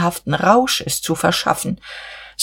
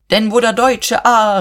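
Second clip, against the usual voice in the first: higher, surging declamation; rousing, raised-pitch call; sudden impassioned cry; 5 semitones higher, 4 dB louder than usual. A narrator's reading. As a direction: burst out with sudden momentum. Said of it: "rief Buck mit jähem Schwung".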